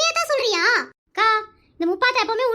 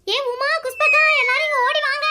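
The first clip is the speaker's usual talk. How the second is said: calling out; 3 semitones higher than usual. Acted. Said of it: "எதுக்கு இந்த கத்து கத்துற".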